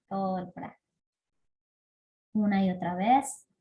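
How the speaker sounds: calm breathing-practice guidance with long pauses; guided meditation. Acted. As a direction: lead them gently through each breath, letting phrase ends fade. Guía una práctica de respiración. (guía de meditación pausada y serena)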